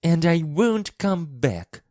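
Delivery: high, defiant retort; Mary shouting back. A narrator's reading. Girl leaves the boy's room in anger, shouting. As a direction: throw it back high and cross. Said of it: "Mary shouted in reply".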